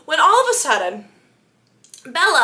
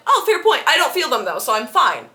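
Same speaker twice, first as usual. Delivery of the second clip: laughing Bella. Retold or imitated. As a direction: laugh it off like nothing's wrong. Bella brushing off her bruises.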